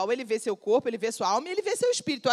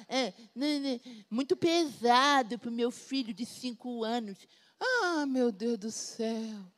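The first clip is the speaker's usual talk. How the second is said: mocking overprotective parent; 2 semitones lower, 5 dB quieter, slower than usual. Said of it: "mocking overprotective parents".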